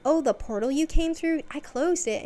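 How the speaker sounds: bright high proud announcement; chirpy high voice. Retold or imitated. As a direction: say it cheerfully proud. Cheerfully admitting mistake.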